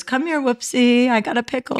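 lightly voiced baby talk; silly dumb pet voice. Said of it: "your baby talk was".

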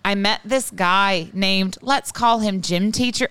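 slow put-on Irish accent. Host reads dating story from email, Irish accent. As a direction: read slowly in a mock Irish brogue. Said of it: "So you just speak an Irish accent".

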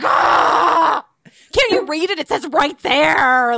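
high, loud mock outrage at the note; exasperated outburst. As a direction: throw up your hands and yell at the page. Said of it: "And I'm like".

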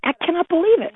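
high-pitched, worked-up retold outrage; outraged. Girl storming off after being dumped, retold outrage. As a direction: go off in indignant disbelief. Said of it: "I went off".

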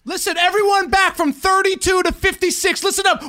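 hijacker rousing the passengers; rallying shout. Acted. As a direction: yell it like a mob leader. Passenger leading a mutiny.

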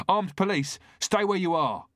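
loud, high commanding shout; shouted police warning. A narrator's reading. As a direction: bark it out like an armed cop. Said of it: "shouted the officer behind him".

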